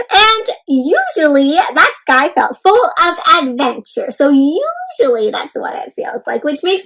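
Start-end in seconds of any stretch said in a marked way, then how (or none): 0.1-4.1 slow, lilting read-aloud voice; story narration. A narrator's reading. Teacher reading a picture book to children, slow and lilting. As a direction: read it slowly to the little ones.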